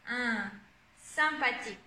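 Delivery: "Un" held alone, then "sympathique" with the same nasal; showing UN sound. Shown as a demonstration. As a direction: model the nasal "Un", pause, then the word. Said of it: "on a le son un".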